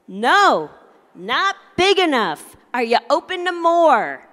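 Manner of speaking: loud, sassy no and a pointed question; with attitude. Shown as a demonstration. Leading the audience in dad's refusal, loud with attitude. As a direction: give the refusal some attitude. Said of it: "put a little attitude into it".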